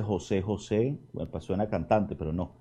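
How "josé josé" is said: gentle calling. Acted. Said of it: "Y le dice".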